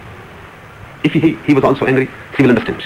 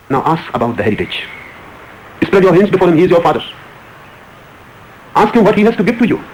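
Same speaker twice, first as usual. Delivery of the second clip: mild mock taunting; 2 semitones higher than usual. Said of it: "She was taunting, she was angry".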